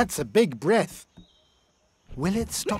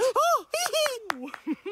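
high, sharp gasp of delight; surprised gasp. Acted. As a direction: gasp in amazement. Narrator reacts to it working.

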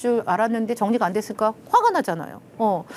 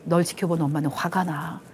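calm statement; 3 semitones lower than usual. Shown as a demonstration. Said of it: "정확히 알려주는 거예요".

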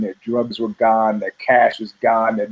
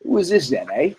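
mock British; 3 semitones higher than usual. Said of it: "they're all Brits in a very British way".

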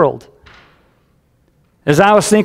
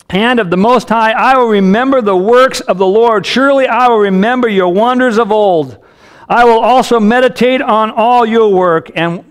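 higher-pitched, declamatory psalm recital; scripture reading; 4 semitones higher than usual. Acted. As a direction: proclaim the psalm to the congregation. Reads the psalm aloud.

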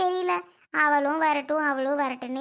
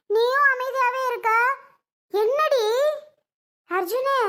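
anxious pressing; 6 semitones higher than usual. Acted. Mother presses daughter-in-law for answer.

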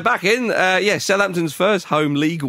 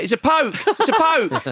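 excited yell; 10 semitones higher than usual. Retold or imitated. Player claiming the goal, shouting it's a poke. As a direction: cry it out like a striker claiming the goal. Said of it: "at the end say".

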